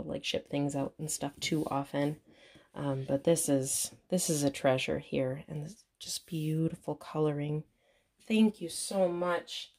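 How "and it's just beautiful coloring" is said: whisper. Real, not acted. Admiring doll quietly.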